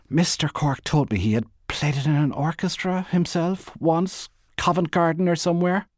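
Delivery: nervous polite chatter; chattering Bernice. Acted. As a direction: prattle on admiringly to cover the awkwardness. Bernice chatters about the flute.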